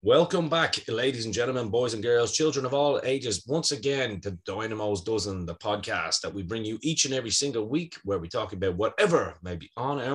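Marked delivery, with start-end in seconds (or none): 0.0-8.0 booming showman welcome to the crowd; ringmaster. Acted. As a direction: announce it like a circus ringmaster. Podcast intro, showman welcome.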